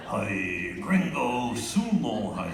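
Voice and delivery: low, slow, drawn-out words; low dummy voice. Acted. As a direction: drop it low and stretch it out. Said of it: "the voice goes lower".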